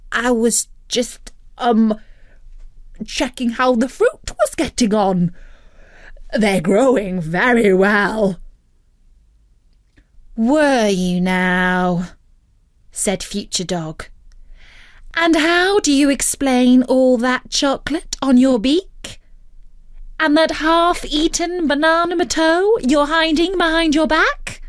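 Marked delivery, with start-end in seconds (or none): 0.1-8.4 a caught thief fibbing; hint of a guilty turkey; sheepish turkey. Turkey caught, making excuses. 10.3-12.1 slow, louder knowing retort; unconvinced parent; skeptical. Acted. Future Dog skeptical. 15.1-24.6 higher, louder accusing questions; a cross guardian; scolding. Acted. Future Dog scolding.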